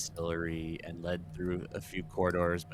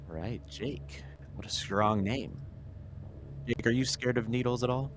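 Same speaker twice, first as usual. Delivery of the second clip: higher, coaxing bedside manner; sweet doctor voice; 5 semitones higher than usual. Acted. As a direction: soothe a nervous patient.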